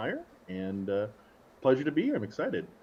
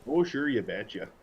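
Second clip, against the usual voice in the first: put-on Minnesota accent; slower than usual. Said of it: "Is that, like, crap or something".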